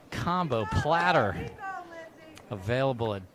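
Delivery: put-on cheery old-time ad read; chipper 1950s ad. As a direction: pitch it like a vintage commercial. Mock restaurant ad in commentary.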